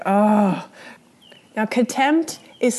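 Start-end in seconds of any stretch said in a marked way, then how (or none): 0.0-0.6 contemptuous sigh. Shown as a demonstration. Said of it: "those big kind of sighs like".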